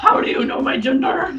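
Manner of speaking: laughing mock outrage. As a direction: choke it out laughing. Offended customer, laughing.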